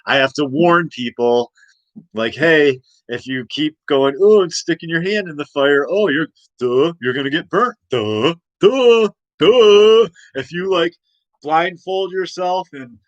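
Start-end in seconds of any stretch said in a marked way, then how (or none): 2.4-10.1 mocking dumb voice. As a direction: sneer like a schoolyard bully. Mocking dumb-voice lecture to people.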